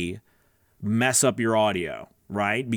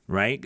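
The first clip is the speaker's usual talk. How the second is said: quick gasp; 4 semitones lower than usual. Shown as a demonstration. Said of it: "have to take a breath".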